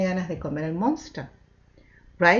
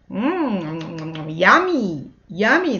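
monster yum; much slower than usual. Pretend. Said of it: "says the monster".

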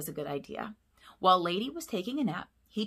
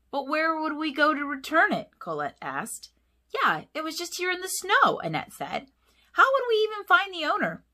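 much higher, louder protesting pups; high puppy voices; 10 semitones higher, 6 dB louder than usual. A narrator's reading. Puppies protest returning the necklace, much higher. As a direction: whine the question.

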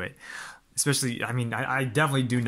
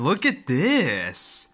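hushed and slow, taking it in; awed whisper; 4 semitones higher, 3 dB louder, much slower than usual. Real, not acted. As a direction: breathe it out in wonder. Awed look at the box.

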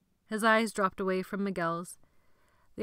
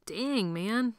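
panting; 3 semitones higher than usual. Acted. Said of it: "Miguel panted".

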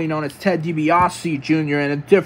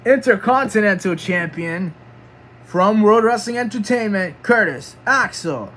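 formal wrestler introduction; ring announcer; 4 semitones higher than usual. Pretend. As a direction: announce him, drawing out the name at the end. Announces the champion entering.

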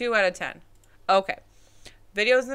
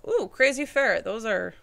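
voice cracking; 4 semitones higher, 5 dB louder than usual. Real, not acted. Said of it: "I can hear my voice cracking".

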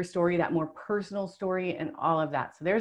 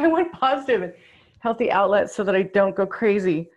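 laughing while reading; 2 semitones higher, 6 dB louder than usual. Real, not acted. Reading a funny card, laughing.

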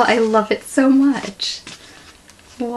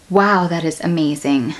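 ordinary talk, nothing marked

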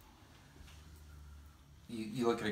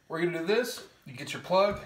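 excited; 6 semitones higher, 5 dB louder than usual. Real, not acted. Hyping up the challenge.

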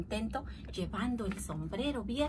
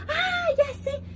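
exclamación alegre; 6 dB louder than usual. Acted. Tío Nacho halla el árbol.

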